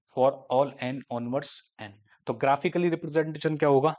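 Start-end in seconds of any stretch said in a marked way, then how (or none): 0.1-1.9 slow, word by word dictation pace. Shown as a demonstration. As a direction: dictate it so students can write it down. Dictating a definition. (धीमे-धीमे लिखवाने वाला अंदाज़)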